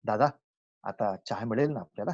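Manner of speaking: courteous and unforced; sweet polite request. Shown as a demonstration. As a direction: ask kindly, pitch dropped. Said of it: "किती गोड वाटतं ऐकायला".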